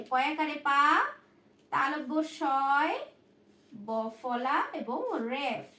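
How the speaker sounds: slow dictation pace; slow spelling. Shown as a demonstration. Teacher spelling the word for students, slowly. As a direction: spell out তালব্য শয় ব ফলা slowly, letter by letter. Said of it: "বানান দেখো".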